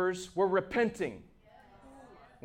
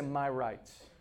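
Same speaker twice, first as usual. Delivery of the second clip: mocked complaint; 12 semitones lower, 13 dB quieter, much slower than usual. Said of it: "People say".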